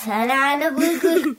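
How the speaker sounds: words sounded out in reverse; backwards speech. Shown as a demonstration. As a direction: say the phrase as if played backwards. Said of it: "turn it backwards and see what it sounds like".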